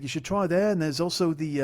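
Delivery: lightly imitated English accent; Paul. Flatmate recommending places to visit, mock English accent. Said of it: "your English accent is shit".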